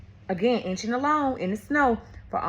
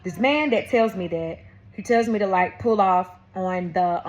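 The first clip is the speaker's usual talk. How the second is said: talking while chewing; words around a bite of food; mouth full. Real, not acted. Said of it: "I'm eating".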